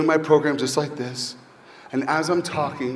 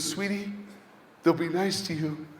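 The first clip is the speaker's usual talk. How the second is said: softly voiced imitation of a comforting mother; tender, hushed coaxing; gentle reassurance; 7 dB quieter than usual. Mother reassuring her son at drop-off.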